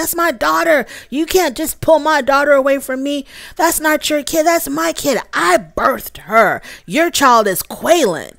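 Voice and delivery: high, hammed-up indignant mother; high squeaky mock outrage; mock angry mom. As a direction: imitate a tipsy mother claiming her daughter. Drunk mom's angry outburst imitated.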